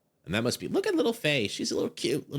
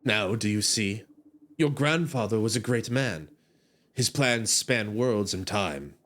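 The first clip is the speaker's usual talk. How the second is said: lower, measured villain voice; cold villain; 4 semitones lower than usual. Acted. Cult leader lecturing Faye, low and cold. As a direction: talk down to the girl calmly. Voicing cultist villain lines.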